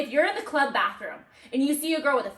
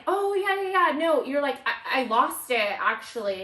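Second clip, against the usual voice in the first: mock nonchalant; 2 semitones higher than usual. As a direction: play it breezy like nothing happened. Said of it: "you play this shit so nonchalant".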